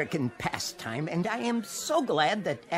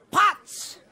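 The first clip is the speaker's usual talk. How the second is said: higher, louder snap of the name; insistent correction; 12 semitones higher, 5 dB louder than usual. Acted. Potts correcting McNulty, a loud insistent snap. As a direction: set him straight on the name.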